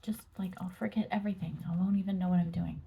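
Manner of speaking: soft unvoiced whisper. Real, not acted. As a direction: breathe the words in a whisper. Soft tarot reading talk.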